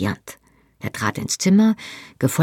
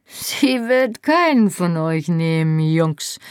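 bellow; 2 semitones higher, slower than usual. A narrator's reading. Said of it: "brüllte Murta".

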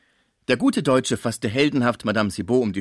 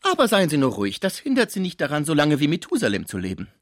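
much higher, loud, mocking disbelief; incredulous concierge; 6 semitones higher, 4 dB louder, faster than usual. A narrator's reading. Concierge mocking the sick man's chastity, high and loud. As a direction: scoff loudly at his claim.

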